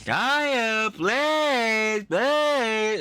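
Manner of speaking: high, loud barked command to a dog; mock dog-owner command, high and loud. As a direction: mimic a streamer ordering his dog. Imitating streamer commanding dog.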